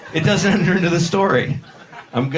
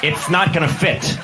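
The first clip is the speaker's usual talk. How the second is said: lightly voiced flight attendant; restrained steward. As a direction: correct it to a toned-down, measured delivery. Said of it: "No, he just said".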